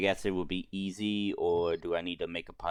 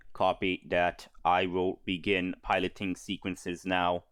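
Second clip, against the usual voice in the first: flat robot voice, even and mechanical. Acted. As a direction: drone it like a ship's robot. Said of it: "You don't like the robot voice?".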